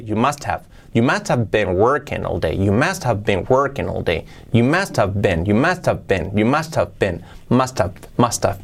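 "must have" said as one word, "mustav"; linked words. Shown as a demonstration. Teacher drills the union for learners, "must have" linked as "mustav". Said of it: "se une saltando desde la H".

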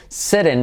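sitting said SIH-ring, tapped t; flapped t. Shown as a demonstration. Teacher points out sitting to learners, flapped t. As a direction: soften the t in sitting to a quick tap. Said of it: "no sitting, sino sitting".

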